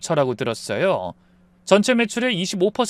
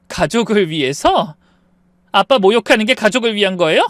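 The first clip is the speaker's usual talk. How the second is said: angry throwback; 5 semitones higher, 6 dB louder than usual. Acted. 부부싸움, 아내가 되받아침.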